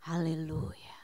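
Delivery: hushed, low whisper imitating a placid husband; very soft, low, unhurried praise; calm sleepy prayer. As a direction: whisper it serenely, as if barely awake. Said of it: "Dia mah begitu bangun tenang".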